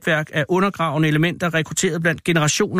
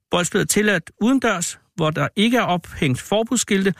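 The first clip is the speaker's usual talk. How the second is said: reading rules aloud. Acted. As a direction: recite the rules like a notice read to the class. Reads out school rules aloud.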